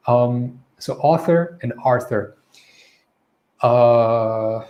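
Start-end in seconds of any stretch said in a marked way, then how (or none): 1.0-2.4 author with open AW, Arthur with an R; name author and Arthur as a contrast; careful pronunciation. Shown as a demonstration. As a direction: keep author and Arthur distinct.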